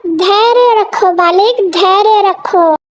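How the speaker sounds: slow grave baba. Acted. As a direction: draw out the advice like a sage. Baba counsels patience.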